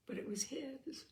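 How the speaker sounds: soft, hoarse murmur under the breath. Acted. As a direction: murmur it hoarsely, barely voiced. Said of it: "murmured somewhat hoarsely".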